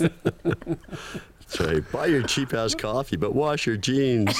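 high laughing rally cry, wash punched; laughing mock shout. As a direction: cheer it on like a mock slogan, laughing.

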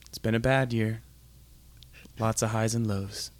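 low, measured radio host with long pauses; late-night DJ. Pretend. Rambling song intro for loyal listeners, late-night DJ voice. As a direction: drop the voice and let each phrase hang. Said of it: "I became the character".

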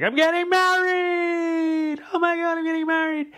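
hammed-up giddy bride squealing the news; squealing excitement. Mocking Carrie squealing she's getting married, in a very high hammed-up shriek. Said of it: "And then she's like".

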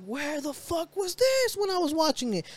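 high, outraged question; indignant surprise. Retold or imitated. Fan discovering a skipped fight, high indignant surprise. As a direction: demand where this was all along. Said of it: "and I'm like".

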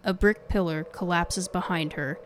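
hushed, measured ghost-story read; spooky podcast intro narration. A narrator's reading. Scripted cold-open ghost story narration.

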